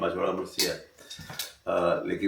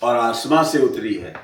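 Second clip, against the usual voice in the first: a lightly declaimed verse line, a touch louder; quoted verse recitation; 2 semitones higher, 8 dB louder than usual. Retold or imitated. Speaker retells the poet reciting his new line, declaimed. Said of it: "मिसरा उन्होंने कहा".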